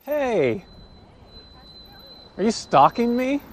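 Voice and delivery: high, loud, delighted hey; surprised greeting. Real, not acted. Spotting friends on the street, a surprised loud hello. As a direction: call out to friends you just bumped into.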